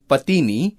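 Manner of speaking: पत्नी said 'patini'; mispronounced word. Shown as a demonstration. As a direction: put an extra i inside पत्नी. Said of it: "शब्दों की वर्तनी अशुद्ध है". (पत्नी का गलत उच्चारण 'पतिनी')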